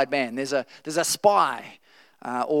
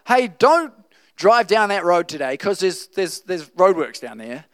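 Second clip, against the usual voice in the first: chatty helpful friend; 3 semitones higher, 5 dB louder than usual. Pretend. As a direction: warn a friend casually about roadworks. Voicing a helpful prophet.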